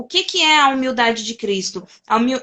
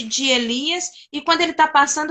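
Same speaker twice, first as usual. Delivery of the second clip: normal talking voice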